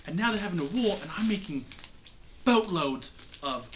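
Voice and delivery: lightly voiced, exasperated mentor pirate; exasperated Lindell. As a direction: scold your former pupil with mild exasperation. Game master plays Lindell scolding the pirate.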